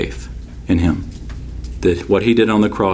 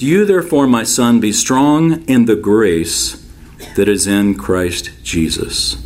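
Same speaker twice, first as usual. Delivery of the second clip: solemn scripture reading; slower than usual. Acted. Reads scripture slowly, weighty.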